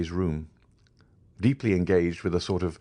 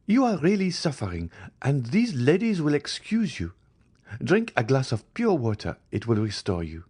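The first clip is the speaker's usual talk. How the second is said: higher, gently insistent; voiced Madame de Villefort; 8 semitones higher than usual. A narrator's reading. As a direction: urge her kindly to go and rest. Villefort sends Valentine away.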